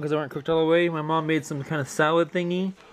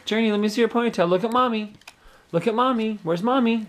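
put-on baby talk; 7 semitones higher than usual. Calling baby's attention.

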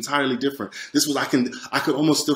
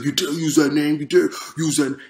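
mildly voiced imitation of fury; retold angry threat, only partly raised; furious rebuke; 3 semitones higher than usual. Devil angered by the name Jesus, mock-furious rebuke. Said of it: "it was basically furious, infuriated".

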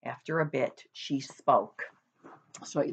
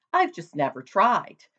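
louder, proud boast; 3 semitones higher, 5 dB louder than usual. Acted. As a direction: keep bragging, sure of himself.

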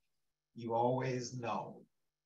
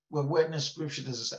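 challenging; 3 semitones higher, 9 dB louder, much faster than usual. Acted. Doubter challenges believer, acted.

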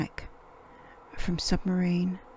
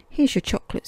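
higher bright offer; 6 semitones higher, 4 dB louder, faster than usual. Acted. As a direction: hand it over cheerfully. Peppa gives chocolate.

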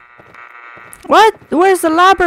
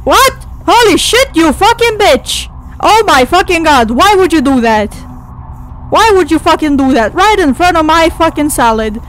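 startled outrage. Real, not acted. Jump scare ruins salad.

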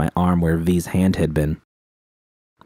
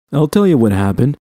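belted out; 7 semitones higher, 5 dB louder than usual. Acted. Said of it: "Dom belted out".

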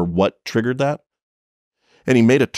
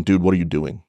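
calm voice. Retold or imitated. Cop to the fleeing driver, suddenly calm. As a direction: drop the anger and ask it evenly. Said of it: "in a completely calm voice going".

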